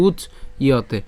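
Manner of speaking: "উচ্চ", a pause, then "ইয়তে"; split pronunciation. Shown as a demonstration. Teacher explains the y glide, split "উচ্চ ইয়তে". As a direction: say "উচ্চ ইয়তে" in two parts, sounding the y. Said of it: "জফলা উচ্চারণ যেহেতু ইয়".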